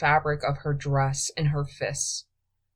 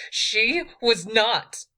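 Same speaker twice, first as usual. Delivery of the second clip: higher, slower indignant protest; indignant denial; 6 semitones higher, 3 dB louder, slower than usual. A narrator's reading. Queen contradicts her thief, indignant. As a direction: deny it hotly. Edis spins, contradicts him.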